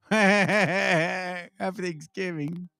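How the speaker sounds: drawn out slowly through a laugh; slow giggling holiday wish. Shown as a demonstration. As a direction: laugh your way through the greeting. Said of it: "So let me say".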